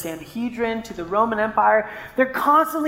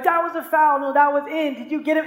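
mock kids bickering; 5 semitones higher than usual. Kids arguing over a hit.

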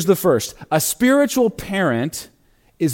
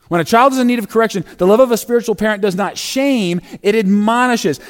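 put-on fast, lifted run-through of "When a child is in need of correction"; quick restatement; 3 semitones higher, faster than usual. Shown as a demonstration. Pastor restates the principle quickly and higher, a brisk recap. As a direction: rattle it off briskly the second time. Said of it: "repeated faster".

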